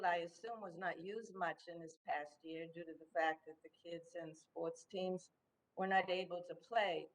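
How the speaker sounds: ordinary talk, nothing marked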